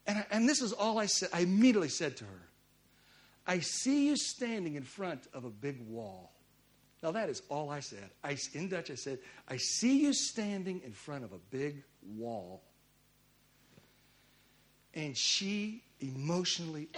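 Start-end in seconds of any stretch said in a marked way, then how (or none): 3.4-6.3 slow, lowered-pitch pronouncement; solemn prophetic word. Retold or imitated. Retelling his prophetic word to her. 9.5-12.6 slow, lowered-pitch pronouncement; solemn prophetic word. Retold or imitated. Repeats his prophetic word, slowly.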